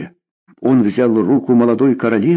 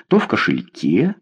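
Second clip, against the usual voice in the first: ordinary delivery, nothing marked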